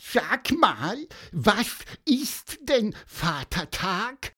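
high, slow, puzzled little bird voice; bird asking. Acted. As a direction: ask it like a curious bird. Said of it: "fragte Pieper auch schon".

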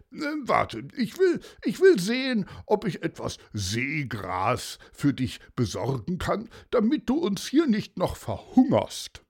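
hurried start, then easing; commissioner, humouring. A narrator's reading. Commissioner offering the seahorse seagrass, lightly indulgent.

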